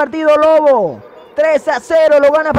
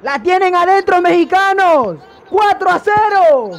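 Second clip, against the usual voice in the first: gloating shout; 5 semitones higher, 4 dB louder, slower than usual. Real, not acted. Taunting rivals after fourth goal.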